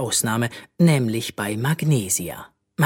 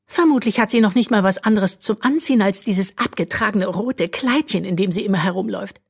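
much higher, louder sneering jibe; mocking; 10 semitones higher, 4 dB louder than usual. A narrator's reading. Princess ridiculing barefoot Bö, sneering. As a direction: belittle her poor dress. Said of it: "entgegnete Magnesia spöttisch".

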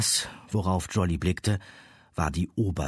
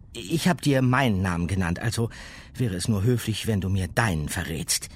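put-on girl voice; 3 semitones higher, 3 dB louder than usual. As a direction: speak politely as a girl. Girl character speaks.

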